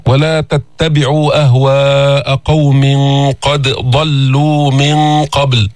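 slow, drawn-out chant; Quran recitation. Acted. Teacher quoting a verse in slow chant. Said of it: "وقال سبحانه وتعالى".

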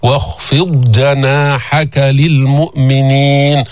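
slow chant of واخفض جناحك; tajweed chant; Quran recitation. Shown as a demonstration. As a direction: recite slowly.

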